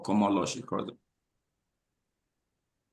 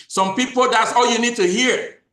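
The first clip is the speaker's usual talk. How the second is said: rising preach; 12 semitones higher, 6 dB louder than usual. Real, not acted. Preaching to audience, building up.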